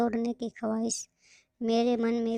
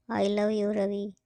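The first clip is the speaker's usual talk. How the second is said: tender; slower than usual. Acted. End of Prerna's love letter.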